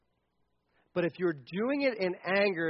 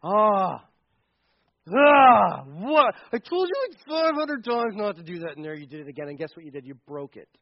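mock angry parent; 5 dB louder than usual. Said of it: "I have been angry".

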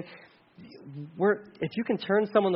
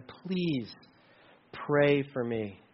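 soft, slow humble asking; quiet plea; 4 semitones lower, 6 dB quieter, much slower than usual. Retold or imitated. Believer quietly asking brothers and sisters for prayer, soft and slow. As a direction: ask for prayer gently, almost whispered.

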